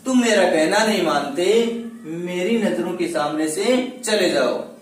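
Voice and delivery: father's scolding, acted out with added force; emotional sentence stress. Shown as a demonstration. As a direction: order the son out, stressing the whole sentence. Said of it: "उसको भावावेश के कारण अन्य वाक्यों से भिन्न बोला जाता है".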